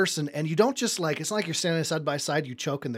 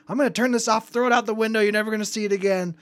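mock mom threat; 7 semitones higher, 5 dB louder, faster than usual.

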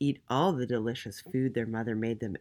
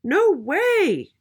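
loud, very high piglet squeal; high-pitched piggy shout; little pig crying out; 9 dB louder than usual. A narrator's reading. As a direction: cry out defiantly as a little pig. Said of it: "cried the little pig".

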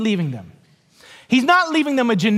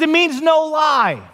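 slow patient explanation; 4 semitones higher than usual. Retold or imitated. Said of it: "He says".

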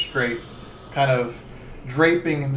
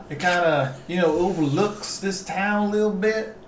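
lightly slurred southern magistrate; southern accent. Acted. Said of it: "Stop doing the southern accent".

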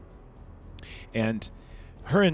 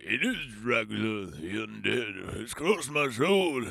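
slow, swooping, hammed-up proclamation ending in a sigh; theatrical Van Helsing. Vampire hunter researching Dracula, melodramatic proclamation. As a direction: intone it with huge mock dread. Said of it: "does this whole".

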